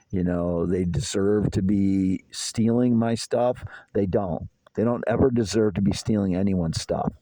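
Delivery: usual speaking voice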